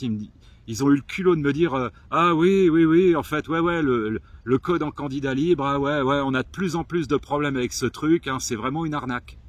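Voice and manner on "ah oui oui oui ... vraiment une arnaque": mock eager salesman. Mimicking the first driving school blaming the exam, hammed-up and loud. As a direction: ham up the school's oily agreement.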